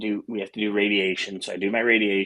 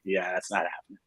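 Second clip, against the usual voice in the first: softer, resigned drop after the boast; deflated; 2 semitones lower, 6 dB quieter than usual. Retold or imitated. Patient collapsing at his laptop, deflated. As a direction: let the bravado drain away quietly.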